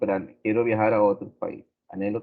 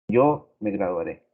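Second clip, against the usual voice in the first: afirmación lenta; 4 dB louder, slower than usual. Shown as a demonstration. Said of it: "estoy afirmando algo".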